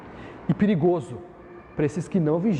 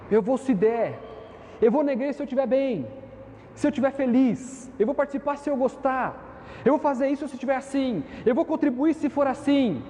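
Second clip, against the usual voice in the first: lightly voiced lukewarm believer, a bit higher; half-hearted churchgoer; 4 semitones higher than usual. Preacher mimics a lukewarm member's excuses, a touch higher and casual. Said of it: "obra feita de meia vontade".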